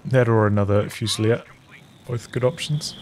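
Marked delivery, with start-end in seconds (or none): 2.1-2.9 talking through hiccups; small hiccup catching the words. Real, not acted. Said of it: "got the hiccups a touch".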